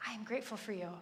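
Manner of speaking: soft, sincere thanks; heartfelt gratitude. Shown as a demonstration. Mother to son at bedtime, soft heartfelt thanks. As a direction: say it tenderly and quietly. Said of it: "really celebrate my son in that time".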